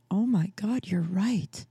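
stunned, breathless whisper; awed whisper. Retold or imitated. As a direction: whisper it like your mind was just blown. Woman stunned by a revelation.

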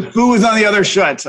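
"foo is on the other shit" with swapped sounds; spoonerism. Shown as a demonstration. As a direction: say "foo" and "shit" in place of shoe and foot. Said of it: "A little spoonerism for you there".

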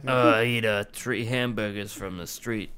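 lightly mocked New York accent; a hint of New York accent; New Yorker. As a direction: put on a bit of New Yorker talk. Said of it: "That's what New Yorkers say".

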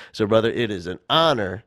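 winded after a long speech; out of breath. Real, not acted. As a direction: talk a little short of air. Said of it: "I'm out of breath".

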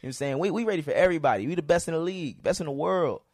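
loud boastful hype shout; rally the crowd like a wrestler hyping a match; wrestling promo. Pretend. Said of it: "I'm trying to cut a wrestling promo".

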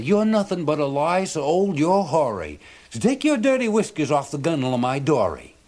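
put-on old fisherman insulting the sea serpent; defiant fisherman. A narrator's reading. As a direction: tell the monster off with scorn.

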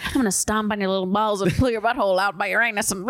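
lightly voiced auctioneer run-on, breaking into laughter. Dominatrix as auctioneer, laughing run-on patter. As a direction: rattle it off like an auctioneer, amused. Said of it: "yeah, an auctioneer".

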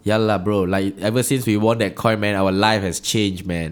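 Wesley. Acted.

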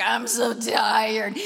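slow, drowsy and worn out; sleepy drawl. Retold or imitated. Preacher acting his tired dream self, slowly. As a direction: drag it out like you can barely stay awake. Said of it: "I was like".

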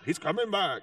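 lightly mocked TV prophecy preacher; a hint of a televangelist's put-on delivery; late-night preacher impression. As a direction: mildly parody an end-times preacher. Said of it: "why they all talk like that".

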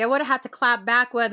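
usual speaking voice

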